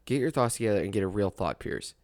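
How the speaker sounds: muttered self-rebuke to get focused; self-scolding. Real, not acted. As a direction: tell yourself off under your breath. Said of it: "let's get my thoughts together".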